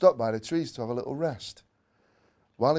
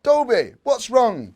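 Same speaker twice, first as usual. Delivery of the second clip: loud, higher worried call; shout; 10 semitones higher, 10 dB louder, slower than usual. A narrator's reading. Dad shouts to Dobie in the park, loud and higher. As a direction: call out to the dog across the park. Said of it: "Dad shouts".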